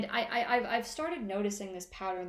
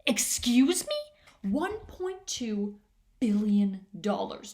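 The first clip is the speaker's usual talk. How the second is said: loud, incredulous what; mock outrage; 7 dB louder, much slower than usual. Comic reacting to the police psychic, loud and incredulous. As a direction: act shocked and offended.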